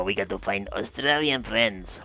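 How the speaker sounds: put-on a light, half-hearted Australian accent; drops a hint of Aussie into the line; mock Australian accent. Joking to cohost about finding Australian friends, faint Australian accent. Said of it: "I don't think you're gonna lure them with that accent".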